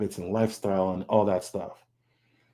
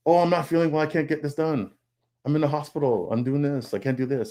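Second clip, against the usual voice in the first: mock excuses; 5 semitones higher than usual. Quoting his own excuses.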